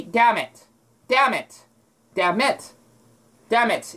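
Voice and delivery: "Damn it" repeated, N dropped, short M. Shown as a demonstration. Showing her own way of saying damn it. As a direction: clip the M in "Damn it". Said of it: "the N is silent ... a really short M".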